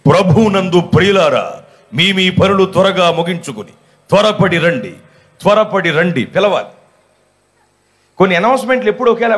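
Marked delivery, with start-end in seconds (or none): 0.1-6.2 a lightly mocked announcer calling people in; church mike announcement. Preacher mocking the village mike call, lightly hammed-up. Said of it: "mic పెట్టి".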